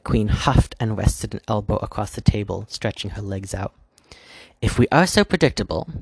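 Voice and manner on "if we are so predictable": pitched high and loud on the opening; sharp exasperated start. A narrator's reading. White Queen to the Dark Queen, exasperated and raised. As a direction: snap it out, fed up.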